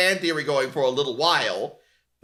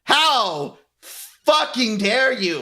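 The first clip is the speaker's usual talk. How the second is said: slow, louder hammed-up indignation; mock outrage; 5 semitones higher, 3 dB louder, slower than usual. Writer scolding fans, slow hammed-up mock outrage.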